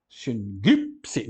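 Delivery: "Sincrípse" said sun-GIP-se, the gamma as an N sound; gamma read as N. Shown as a demonstration. Teacher shows students how to read the gamma, careful. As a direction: read "Sincrípse" with the nasal N before the G. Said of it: "aquele gama tem que ler como N".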